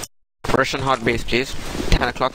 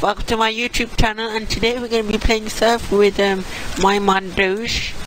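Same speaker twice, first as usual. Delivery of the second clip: lightly put-on YouTuber voice, slightly raised; YouTuber intro; 4 semitones higher than usual. Player introduces a game to channel viewers, YouTuber voice. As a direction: welcome viewers like a young streamer.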